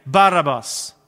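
drawn-out crowd cry; crowd calling out. Retold or imitated. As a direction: call it out as the crowd demanding release. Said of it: "ropar folket".

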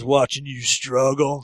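put-on low, slow sneering drunk. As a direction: taunt him slowly and low. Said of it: "He goes".

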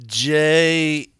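very slow letter-by-letter spelling; spelled slowly. Pretend. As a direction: spell each letter out like a spirit board.

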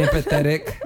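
"empathetic" said with each syllable of the ending carefully articulated; enunciated PATHETIC. Real, not acted. Friend describing his drunk dad, over-enunciating "empathetic". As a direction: hit "empathetic" with crisp, deliberate enunciation. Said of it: "You really enunciated the pathetic part".

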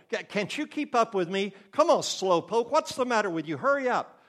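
mock impatience of a hurried parent; impatient scolding.

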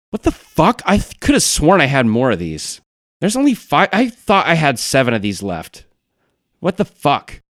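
high-pitched, indignant bafflement; can't believe your own count, voice jumping up; incredulous, high-pitched outburst; baffled disbelief. Acted. Acted character finds candies missing.

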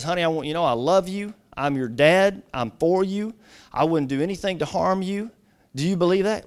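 gentle, mildly tender fatherly reassurance; loving. Retold or imitated. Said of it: "very lovingly says".

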